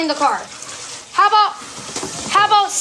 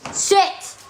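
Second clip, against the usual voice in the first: whispered "Sit" at the dog; whispered dog command; 2 semitones higher than usual. Real, not acted. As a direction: hiss a firm command at the dog.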